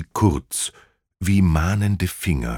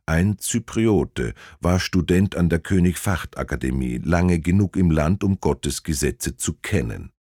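gloomy. Acted. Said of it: "sagte der Polizeichef düster".

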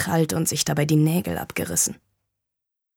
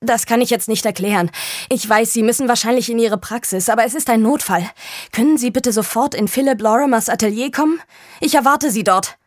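urgent plea; 5 semitones higher than usual. Acted. Emergency call to doctor.

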